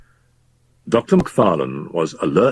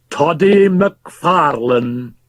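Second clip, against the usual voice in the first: repeated; 10 semitones higher, 4 dB louder, much slower than usual. Acted. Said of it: "repeated Fettes".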